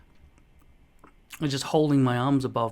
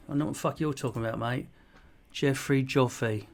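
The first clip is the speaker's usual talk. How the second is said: attempted British accent. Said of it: "no, I can't really do it".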